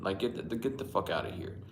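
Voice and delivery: hushed, voiceless get out; whispered brush-off. Retold or imitated. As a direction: whisper it at the kid. Telling off the snooty kid.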